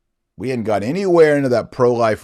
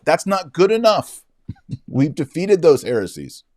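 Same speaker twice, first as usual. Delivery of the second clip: indignant; 8 semitones higher, 3 dB louder than usual. Real, not acted. Indignant rebuttal.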